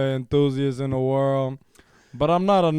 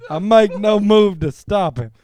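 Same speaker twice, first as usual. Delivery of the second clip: best voice. Pretend. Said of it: "I'm gonna read this in my best voice here".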